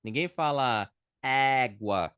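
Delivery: slow, stressed "Ninguém fala égua"; teacher pressing the point; slow stressed example. Shown as a demonstration. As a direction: lean on the open é in "égua". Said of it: "a gente fala elefante".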